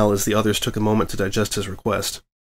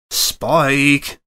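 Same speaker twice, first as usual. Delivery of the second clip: through clenched teeth; 5 semitones higher, 3 dB louder than usual. Acted. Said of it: "Twilight urged through clenched teeth".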